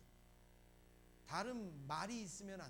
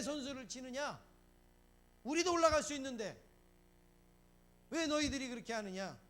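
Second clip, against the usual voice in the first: louder, higher acted complaint of the disciples; indignant protest; 5 semitones higher, 7 dB louder than usual. Ten disciples objecting to the two who jumped ahead, indignant protest. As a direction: protest loudly, voicing jealous disciples. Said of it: "지금 그런 얘기를 하는 거예요, 이 열 제자들이".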